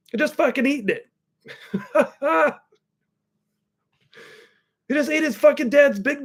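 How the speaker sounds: real laughter breaking through, high and slow; laughing. Real, not acted. Uncle recounts nephew eating dad's Big Mac, laughing. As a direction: laugh out the punchline.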